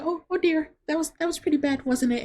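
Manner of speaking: high, prim busybody voice, tutting; nosy old lady. Retold or imitated. A nosy diner lady comments on the couple's fight, high and prim. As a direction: cluck like a prying old lady. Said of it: "This lady's like".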